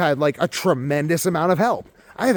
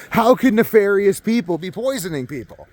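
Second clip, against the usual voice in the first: laughing. Real, not acted. Musing about poisons, laughs.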